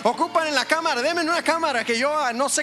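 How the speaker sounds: eager volunteer. Retold or imitated. Church member pleading with the pastor to put him to work, eager and high. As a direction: play the keen member volunteering for every task. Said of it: "va a decir".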